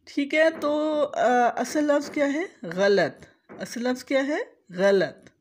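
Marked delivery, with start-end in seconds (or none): 2.7-3.3 गलत as gha-lat, zabar on ghain and lam; गलत with both first vowels open; correct ghalat. Shown as a demonstration. Teacher answering her own quiz with correct गलत. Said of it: "गैन के ऊपर ज़बर है". 4.7-5.3 गलत as gha-lat, zabar on ghain and lam; गलत with both first vowels open; correct ghalat. Shown as a demonstration. Teacher answering her own quiz with correct गलत. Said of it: "लाम के ऊपर ज़बर है और तोए साकिन है".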